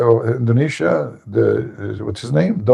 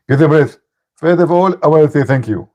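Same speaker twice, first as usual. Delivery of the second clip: imitating Zakir Naik; 3 semitones higher than usual. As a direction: parody the opponent's lecture opening. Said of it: "Zakir Naik".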